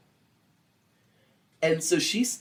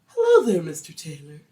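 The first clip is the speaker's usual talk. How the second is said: company man greeting; 3 dB louder than usual. Acted. Assistant manager greeting the drunk husband, politely formal. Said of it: "he greeted him with a".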